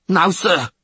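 high, loud refusal; defiant rasp. A narrator's reading. Sailor refusing the witcher's order, loud rasp. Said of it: "rasped the tallest of them".

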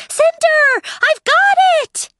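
very high, excited robot voice; high android voice. Acted. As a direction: call out like an eager little robot. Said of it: "A high-pitched voice interrupted them".

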